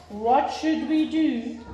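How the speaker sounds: mother asking her husband, worried; worried question. A narrator's reading. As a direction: ask it slowly, worried. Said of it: "said Missus Hope".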